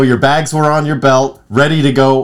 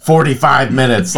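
a mock lazy coworker with a sudden very high "Ooh"; mocking a lazy worker; 4 semitones higher than usual. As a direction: squeal the "Ooh", then drift into a lazy coworker voice. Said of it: "and then you're like".

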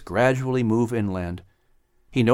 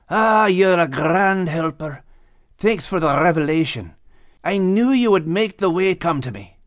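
Max grateful; 6 semitones higher than usual. A narrator's reading. Max thanking the Maker, high grateful voice.

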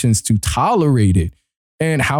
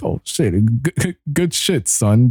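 proud dad; slower than usual. Retold or imitated. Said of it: "I feel like a proud father".

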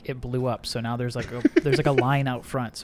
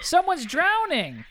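high slow panicked call; high drawn-out cry for help; much slower than usual. Acted. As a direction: stretch it out in a high wail. Voiceover actor playing drowning scene.

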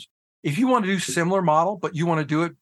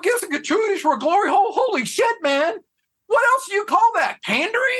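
high, loud, fast incredulous rant; very high shocked rant; outraged disbelief; 4 dB louder than usual. Retold or imitated. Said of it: "I went".

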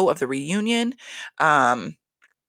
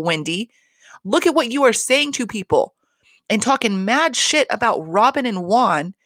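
irritated rant, pitched higher; real annoyance, voice raised in pitch; pissed off; 4 semitones higher than usual. Real, not acted. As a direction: tell them off, exasperated. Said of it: "clearly, by the tone of my fucking voice".

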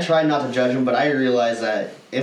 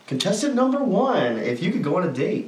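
dating show host; 2 semitones higher than usual. Retold or imitated. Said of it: "that one dating show".

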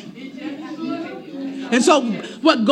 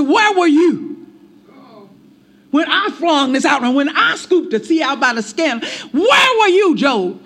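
God confronting Job. Retold or imitated.

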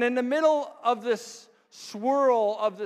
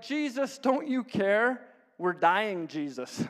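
mock panicked plea. Disciples in sinking boat appeal to Jesus, mock panicked plea. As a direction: plead in mild mock alarm, drawing out the question.

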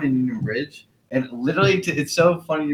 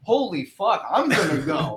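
exasperated; 3 semitones higher than usual. Retold or imitated. Amish guy fed up.

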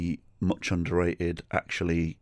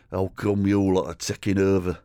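put-on drunk racist rant; 2 semitones higher, 3 dB louder than usual.

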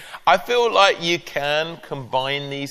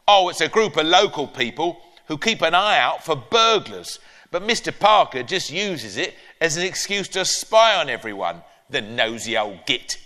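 granny voice; 3 semitones higher than usual. Acted. Granny grumbling about neighbour.

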